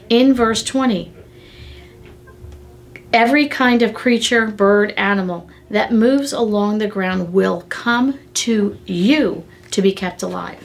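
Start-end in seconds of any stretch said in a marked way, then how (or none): 3.1-10.6 scripture reading. Shown as a demonstration. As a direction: read it out plainly to the congregation. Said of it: "Listen to what it said".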